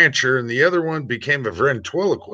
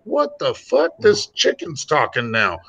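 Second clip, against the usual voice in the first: high startled outburst; sudden disbelief, pitched up; shocked rancher; 6 semitones higher than usual. Retold or imitated. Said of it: "And the rancher's like".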